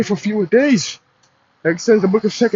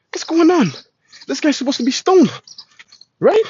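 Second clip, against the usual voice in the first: mock indignation; 7 semitones higher than usual. Mock outrage at disorder.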